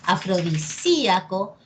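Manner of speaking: afrodi-SÍ-a-co, leaning on SÍ; Afrodisíaco with the tonic SÍ punched; stressed Í. Shown as a demonstration. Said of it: "la sílaba tónica".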